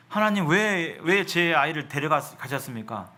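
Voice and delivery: normal talking voice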